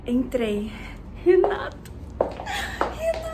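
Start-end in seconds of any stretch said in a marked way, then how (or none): 1.2-3.3 excited greeting. Real, not acted. Calling to the host on arrival.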